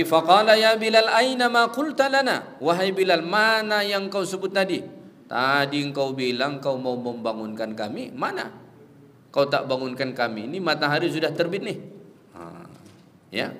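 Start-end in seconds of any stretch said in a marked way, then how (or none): 0.0-11.8 louder, raised questioning of a servant who failed; Prophet questioning Bilal. Retold or imitated. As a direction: press Bilal on where he was, with some force. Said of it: "Lalu apa kata Nabi?".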